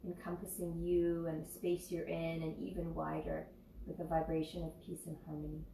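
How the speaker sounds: calm, even voice with long pauses; guided meditation. Real, not acted. Yoga teacher leading loving kindness meditation, calm guiding voice. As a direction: guide them gently, phrase by phrase, leaving space.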